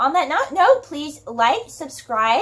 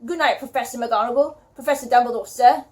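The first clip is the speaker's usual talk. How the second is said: muffled voice. Acted. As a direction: talk as if through a hanky. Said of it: "in a very muffled voice".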